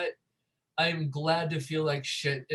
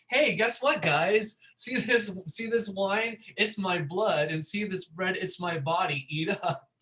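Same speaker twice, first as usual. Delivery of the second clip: a lightly voiced, pitched-up Jesus hyping his bros; cheerful dude-bro Jesus, pitched up; mock Jesus; 4 semitones higher than usual. Jesus telling his bros to eat his body, mock hype. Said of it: "Jesus hanging out with his bros and saying".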